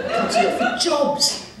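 squeaky high-pitched mock answer, slow; silly high voice. Comic answering his own question in a squeaky voice. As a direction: pipe it up high and slow like a cartoon.

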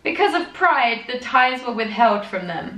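milk the drama of the tie feud; hammed-up reading of the elders' tie feud; mock dramatic reading. Reads the journal on, building.

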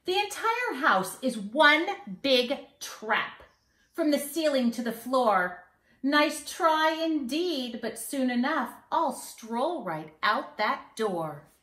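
put-on sing-song rhyme for kids; mischievous leprechaun. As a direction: read it like a cheeky little leprechaun bragging. Leprechaun strolls out.

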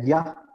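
"ya" con g inicial, como guia; sonido G-U-I. Shown as a demonstration. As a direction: pronunciar "ya" empezando con g de gato. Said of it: "como si hubiese una U entre la G y la I". ("ya" como una sílaba zapoteca con g)

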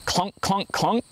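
puzzled tapping sound of the knife; knife clunking on stone. A narrator's reading. Old man's knife keeps hitting empty stone, rising clunks. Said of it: "the sound of his knife hitting empty stone".

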